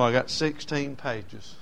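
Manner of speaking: sixteen pages drawn out; slow first telling. Retold or imitated. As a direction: say it slowly, plainly. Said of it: "He said".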